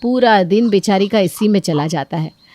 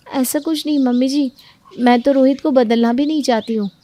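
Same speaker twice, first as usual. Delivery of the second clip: meek protest; 5 semitones higher than usual. Acted. Daughter-in-law protesting to mother-in-law, meek. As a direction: protest gently.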